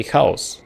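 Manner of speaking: chaos said the Czech way, with a throaty ch like loch; Czech pronunciation. Shown as a demonstration. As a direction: give chaos its Czech ch sound. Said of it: "in Czech, my native language".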